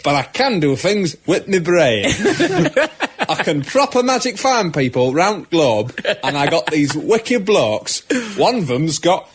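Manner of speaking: put-on Patrick Stewart redone with a broad cockney accent. Mocking the film, Patrick Stewart as a lightly voiced cockney. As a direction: play the professor as a cockney geezer. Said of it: "If Patrick Stewart sounded like that".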